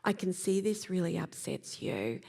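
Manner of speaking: measured, understated sympathy; very calm. Acted. Coach acting a too-calm friend, measured calm response. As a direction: say it calmly, deliberately too composed to land. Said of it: "came in very calmly and said".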